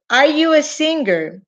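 slow, clear example question; lenta pregunta de ejemplo. Shown as a demonstration. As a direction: say it slowly for the class. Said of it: "si yo te pregunto". (pregunta en inglés, despacio y clara)

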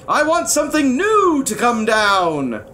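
high, demanding royal bellow; insistent angry king. A narrator's reading. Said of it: "bellowed the king".

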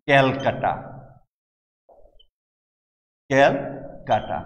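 ক্যালকাটা drawn out slowly in an English style; teacher lingers on ক্যালকাটা as the British said it; British mispronunciation. Shown as a demonstration. Teacher mocking how the British renamed Kolkata, slow and drawn out. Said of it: "বানিয়ে দিলেন".

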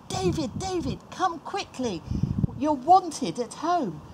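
high, urgent call. Acted. Brothers run out to fetch David, calling out.

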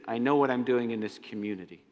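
low, measured voice of the demon Legion; a lightly voiced cold demon boasting; Legion speaking. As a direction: speak as the organized demon, calm and sure. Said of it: "Legion says".

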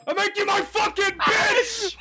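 slow gloating yell; triumphant shout. Real, not acted. Trash talk after kill.

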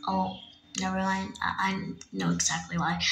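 sad, deflated reply to a worried friend. Acted. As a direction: let the words sink, hurt and quiet. Bullied girl, sad and withdrawn.

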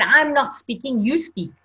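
lightly acted vehement handover; vehement refusal. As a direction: retell a firm, vehement refusal. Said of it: "with such vehemence".

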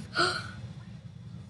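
sharp breathy intake; quick audible breath; gasp. Acted. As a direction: gasp after the long wail. Big breath after long wail.

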